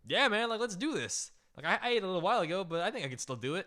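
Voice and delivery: eager friend talking fast; pumped-up eager friend. Retold or imitated. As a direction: hype yourself up for the challenge. Paul eager to try challenge.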